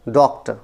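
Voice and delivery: डॉक्टर with the first syllable made prominent; डॉक्टर, strong first beat and light ending; stress on first syllable. Shown as a demonstration. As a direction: lean on the opening syllable of डॉक्टर. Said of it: "इसको मैंने prominent किया है".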